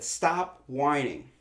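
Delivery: slow, blunt "Stop whining"; dismissive. Retold or imitated. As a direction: drag it out flat. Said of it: "that I said".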